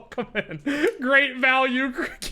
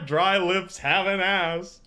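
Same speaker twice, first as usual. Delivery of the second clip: slow, flat robotic reading; text-to-speech voice; slower than usual. Retold or imitated. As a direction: read it like a text-to-speech program. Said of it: "He says it like a text-to-speech program".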